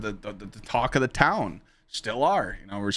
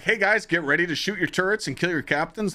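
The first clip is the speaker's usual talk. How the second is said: quoting James; 7 semitones higher than usual. Retold or imitated. Quoting James calling raid orders.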